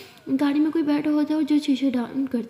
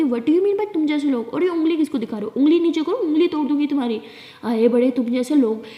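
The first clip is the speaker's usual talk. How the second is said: indignant, slowed on the first question, louder at the finger threat; hammed-up quarrel, a raised voice against the driver; angry retort; 3 semitones higher, 4 dB louder than usual. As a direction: tell him off and threaten him. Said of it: "Alia बहुत ही ज़्यादा फिर लड़ाई करने लग जाती है".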